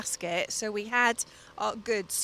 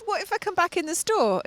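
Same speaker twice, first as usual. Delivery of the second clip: higher-pitched indignant retort; nuclear outburst; 8 semitones higher than usual. Retold or imitated. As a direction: push back at the cashier, still fuming. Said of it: "I went nuclear in about four seconds".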